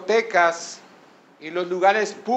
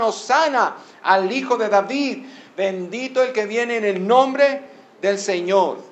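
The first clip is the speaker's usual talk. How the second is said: put-on higher-pitched, mildly acclaiming children's cry; grito imitado; 5 semitones higher than usual. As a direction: proclaim it like a cheering crowd, restrained. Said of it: "los niños gritaban". (aclamación imitada en tono alto)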